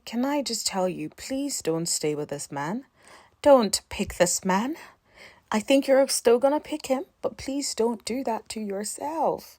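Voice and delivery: normal talking voice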